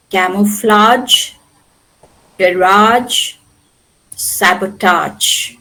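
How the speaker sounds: CAMOUFLAGE, GARAGE, SABOTAGE slowly, each ending in long "ahj"; French -age ending. Shown as a demonstration. Teacher lists words that retained French pronunciation, French "ahj" endings. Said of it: "retained the French pronunciation".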